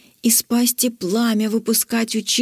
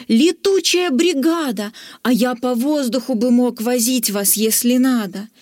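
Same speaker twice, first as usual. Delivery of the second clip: delighted. Acted. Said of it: "в восторге".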